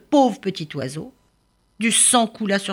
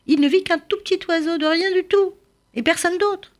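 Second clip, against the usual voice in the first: amazed; 13 semitones higher than usual. A narrator's reading. Narrator voice rises in wonder.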